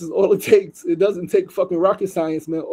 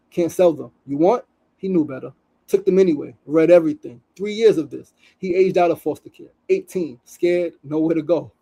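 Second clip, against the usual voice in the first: raised, storytelling read of a post; reading a post aloud. Acted. Host reading an Instagram story to viewers, earnest read.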